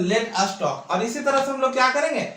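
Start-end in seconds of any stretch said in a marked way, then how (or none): 0.0-0.9 very slow, every word spelled out; slow model sentence. Shown as a demonstration. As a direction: say it slowly so students copy. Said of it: "teacher models the sentence". (बहुत धीरे, साफ़ बोलकर)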